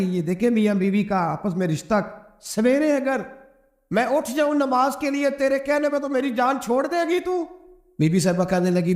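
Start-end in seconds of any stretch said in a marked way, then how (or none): 2.4-7.4 much higher, pleading haggling tone; mock exasperated plea. Preacher repeating the husband's bargain with wife, high mock plea. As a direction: whine the deal like a worn-out husband.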